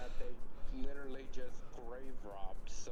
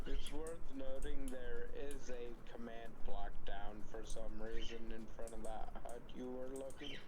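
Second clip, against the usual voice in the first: out of breath mid-sentence; gasping for air between words; catching breath midword. Real, not acted. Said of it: "Sorry, I lost my breath there".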